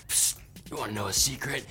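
hushed conspiratorial aside; whispering a secret. Acted. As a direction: lean in and share a secret softly. Sponsor bit teasing a secret.

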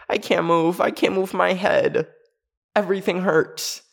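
mock pleading. Stuck camper pleading.

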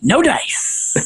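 lightly imitated tough-guy voice, softly drawn out; a hint of old-timey New York character; Charles Bronson. Cartoon mom refusing her kid a cookie, Charles Bronson voice. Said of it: "variation of the Charles Bronson voice".

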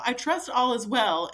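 war-letter formality. Retold or imitated. Husband texting his unanswering wife, mock war-letter formality. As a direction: imitate his over-formal check-in. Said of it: "a Revolutionary War battle".

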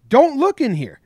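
mock yell. Manager yelling at the umpire from the dugout, imitated shout. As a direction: bark it at the umpire like an angry manager. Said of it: "So Hinch is like".

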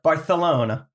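"Barcelona" with a lisped th for the c; Castilian Spanish accent. Shown as a demonstration. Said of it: "a little more Spanish".

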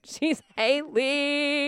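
very slow, drawn-out sing-song; sing-song cadence. Shown as a demonstration. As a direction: stretch it into a lilting cadence. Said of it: "I'm giving too much of a, of a cadence there".

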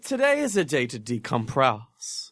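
mock French accent, drawn out slowly; slow, playful French-tinged delivery. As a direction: put on a dubious French accent. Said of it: "Is that a French accent?".

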